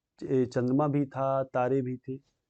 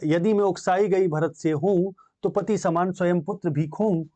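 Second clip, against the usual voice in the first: poem recitation; 2 semitones higher than usual. Acted. Teacher voicing Kaikeyi's oath to the assembly, measured recitation.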